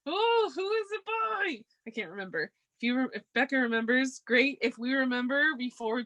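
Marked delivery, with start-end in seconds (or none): 0.1-1.6 puzzled self-quote. Retold or imitated. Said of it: "And I'm like".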